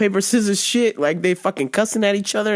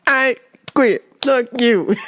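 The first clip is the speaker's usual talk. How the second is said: mock quitting, higher separated words; hammed-up halting defiance; imitating deaf coworker; 3 semitones higher, slower than usual. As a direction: play an emphatic signer word by word. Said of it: "the deaf chick was like".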